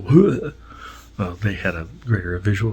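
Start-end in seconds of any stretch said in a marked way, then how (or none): 0.0-0.5 higher, louder "huh"; a sudden raised huh; imitated startled huh. Crewmate reacting to quick moves in space, imitated huh. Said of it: "One of us would go".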